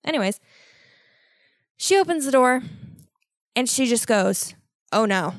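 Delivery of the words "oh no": low, even, unbothered delivery; really calm. Retold or imitated. Woman opens the stall door and spots it, really calm. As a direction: react with total calm, pitch dropped. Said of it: "Like, really calm. Like, so fucking calm".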